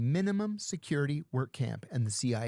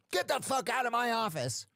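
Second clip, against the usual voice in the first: mock angry order; 9 semitones higher than usual. Lieutenant throws him out.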